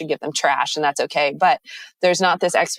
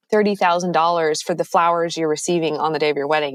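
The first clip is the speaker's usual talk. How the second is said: normal talking voice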